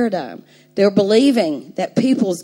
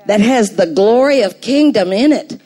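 fervent preaching; 3 semitones higher, 3 dB louder than usual. Acted. Builds to full preaching.

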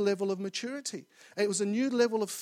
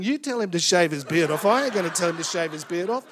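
louder, defiant refusal thrown back at God; imagined retort, louder, refusing to pass on the word; defiant outburst; 7 dB louder than usual. Retold or imitated. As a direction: push the order back, loud and stubborn. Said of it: "I felt like saying".

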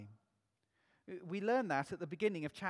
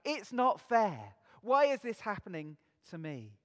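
mock complaint; 6 dB louder than usual. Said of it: "we just want to cry out".

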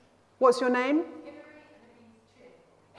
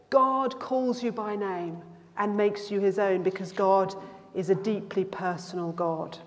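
tender, solemn blessing. Shown as a demonstration. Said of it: "So I will say".

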